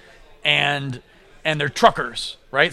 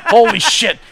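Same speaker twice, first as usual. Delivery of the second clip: retold gasp of amazement, louder and higher; amazed; 6 semitones higher, 6 dB louder than usual. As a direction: hit it like a jaw-drop.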